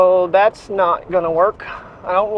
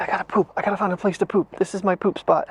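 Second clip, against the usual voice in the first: voicing the dog; 6 dB quieter, faster than usual. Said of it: "She's like".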